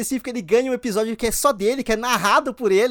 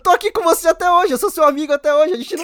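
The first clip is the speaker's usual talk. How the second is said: excited pleading; 6 semitones higher, 5 dB louder than usual. Retold or imitated. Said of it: "porque ele fala".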